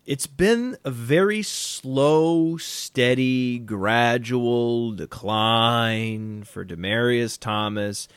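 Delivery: slow and sinking, dragged out; slow dramatic. Acted. Mournful slow drawn-out decline.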